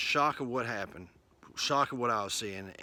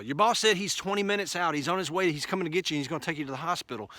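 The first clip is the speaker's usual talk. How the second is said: a higher, lightly effeminate report, rushing at the end; lightly feminine coworker; 5 semitones higher, faster than usual. Retold or imitated. Clerk passing on the boss's message, lightly feminine. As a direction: nudge the voice up to hint at the clerk. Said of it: "they were feminine".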